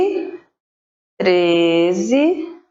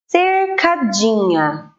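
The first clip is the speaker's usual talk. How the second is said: "cercadinha" drawn out slowly, syllable by syllable; slow sounding out; slower than usual. Shown as a demonstration. Teacher to pupils, sounding out cercadinha slowly. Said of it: "a palavra".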